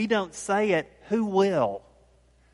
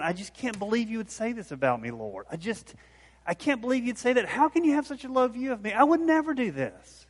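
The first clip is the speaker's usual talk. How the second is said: fast mock protest, climbing much higher; Peter protesting repeatedly; 6 semitones higher, faster than usual. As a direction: imitate someone insistently going on and on. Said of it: "he keeps saying over and over again".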